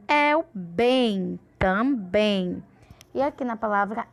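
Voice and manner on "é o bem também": slow, weighted "bem", then "Também" stressed at the end. Shown as a demonstration. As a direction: lean long on "bem". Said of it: "a sílaba de maior força".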